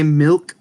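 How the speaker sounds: milk attempted with care; effortful pronunciation. Shown as a demonstration. Demonstrating a word that comes out funny, effortful milk. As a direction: try hard at the "ih" in milk. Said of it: "it comes out funny".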